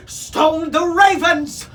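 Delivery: high, loud, stretched exclamation; astonished gasp. A narrator's reading. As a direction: parrot amazed by what it sees. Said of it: "grasped Neptune".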